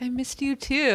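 lightly acted softening; softened. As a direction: imitate someone relenting, a touch tenderly. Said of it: "Toby then softens".

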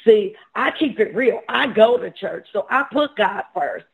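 imitating his younger self's emphatic boast. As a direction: set them straight, emphatically. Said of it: "I said this very emphatically, just like this".

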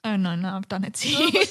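ordinary talk

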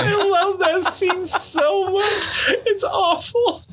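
high, helpless laughter through the words; laughing hard. Real, not acted. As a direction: squeeze it out slowly while cracking up. Cracking up at movie reference.

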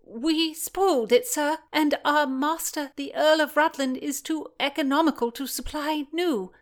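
put-on a bold, loud boyish reply. Page answering Blackjack boldly.

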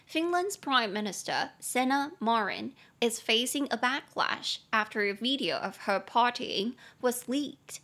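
slow, careful reading of the example sentence; slow model reading. Shown as a demonstration. Teacher reads the news sentence to students, slow and clear.

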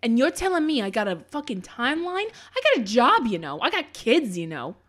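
put-on loud, brash Jersey accent. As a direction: shout it in a thick Jersey accent. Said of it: "test out your Jersey accent".

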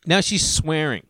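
ordinary talk

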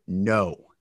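'no' dropped deep and low; tone demonstration. Shown as a demonstration. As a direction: sink the "no" to a low tone.

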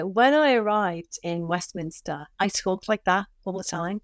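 put-on lapse into your old Scouse; demonstrating a stronger Scouse accent. Shown as a demonstration. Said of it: "And that's how I talked".

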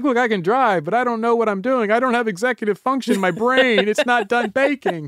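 high-pitched mock teenager. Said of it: "when you get some teenagers".

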